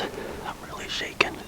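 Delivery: shaky whisper after a kill; trembling from adrenaline; adrenaline shakes. Real, not acted.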